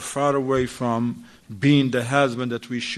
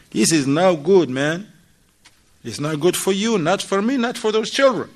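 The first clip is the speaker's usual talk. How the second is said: louder, rising mock rebuke; wife pleading louder with husband over late nights; firm plea; 4 semitones higher, 5 dB louder than usual. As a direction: press the point harder each phrase. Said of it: "she's gonna say".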